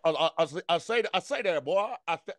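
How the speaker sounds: blustering Southern rooster send-up; Foghorn Leghorn. Acted. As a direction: stutter into a cartoon catchphrase.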